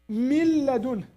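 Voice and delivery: min ladun recited with the noon merged into the l; slow recitation. Shown as a demonstration. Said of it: "It should be like that".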